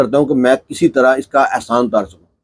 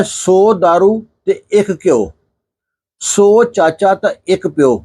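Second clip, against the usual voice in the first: slow, sing-song saying, a bit higher; slow proverb recitation; recited Punjabi proverb; 4 semitones higher, slower than usual. Retold or imitated. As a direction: draw out the old proverb slowly. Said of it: "Punjabi کی ایک مثال ہے".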